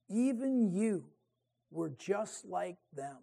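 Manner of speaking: even you, dropped to a soft, hushed stress; quiet emphasis. Shown as a demonstration. Preacher pressing the reproach on you, quietly. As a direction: hush it and lean on you. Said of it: "directly applied you".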